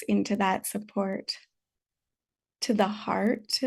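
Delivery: unhurried meditation guidance with long pauses; calm, spacious meditation teacher's delivery; guided meditation. Real, not acted. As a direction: gently guide them to settle, leaving space between phrases.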